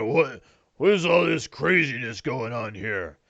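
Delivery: put-on ogre voice; bewildered ogre. Game master voices ogre surveying the fight, bewildered creature voice. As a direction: play a baffled, grumbling ogre. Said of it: "The ogre's like".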